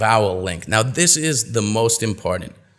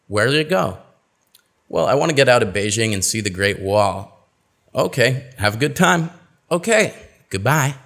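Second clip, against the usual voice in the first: two-voice dialogue reading. Shown as a demonstration. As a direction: act out a relaxed dialogue with reduced speech. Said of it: "Let's go over this dialogue".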